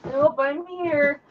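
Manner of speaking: talking from down under the desk; ducking under a table. Real, not acted. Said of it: "That picked you up really good under there".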